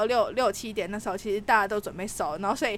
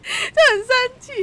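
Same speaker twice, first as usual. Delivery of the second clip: mock anger; 12 semitones higher, 8 dB louder, slower than usual. Real, not acted.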